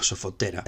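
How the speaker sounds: "sofotera" stressed on the second-to-last syllable, TE; shifted stress. Shown as a demonstration. Teacher showing the feminine shifts the accent, "sofotera" stressed on TE. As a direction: move the stress along to TE in "sofotera". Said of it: "desplaza el acento una sílaba".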